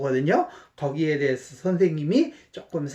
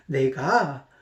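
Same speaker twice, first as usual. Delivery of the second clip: ordinary talk, nothing marked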